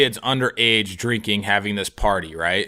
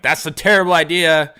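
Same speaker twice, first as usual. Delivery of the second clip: retold protest; 7 semitones higher, 5 dB louder than usual. Retorting to the cop.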